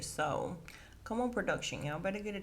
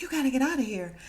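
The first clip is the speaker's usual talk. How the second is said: higher, louder mock order to leave; imitated yelling; 6 semitones higher, 6 dB louder, faster than usual. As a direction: yell it like a panicked man caught out. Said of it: "he keeps yelling at her".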